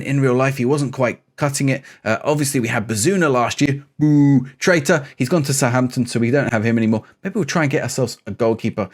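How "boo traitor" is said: drawn-out, playful jeer; mock booing. Fan jeering a player gone to Southampton, mock booing. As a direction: boo slowly like a fan heckling.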